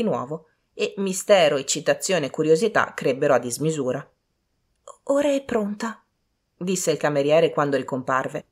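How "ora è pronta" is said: high-pitched servant voice. A narrator's reading. Servant announcing she is ready, high servant voice. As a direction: announce it in a higher voice.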